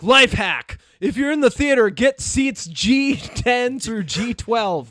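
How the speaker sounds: upbeat YouTuber pitch, slowing at the end. Pretend. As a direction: sell it like a life hack video. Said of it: "if I were a YouTuber, I'd be like".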